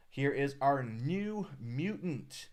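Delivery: slow, stretched-out unveiling; drawn-out reveal. Real, not acted. Streamer unveils his new mutant to viewers, drawn-out reveal. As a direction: present it slowly, stretching the big words.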